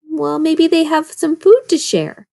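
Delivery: put-on hopeful, scheming old wolf; hungry old wolf. A narrator's reading.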